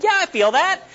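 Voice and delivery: high, strained comic yelp; mock pained protest. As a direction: act out yelping while being cut before numb. Retells being cut before numb.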